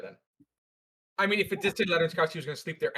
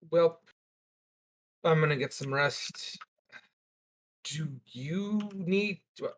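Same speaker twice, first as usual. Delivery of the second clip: put-on Tibbs accent; slower than usual. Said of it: "What accent was that?".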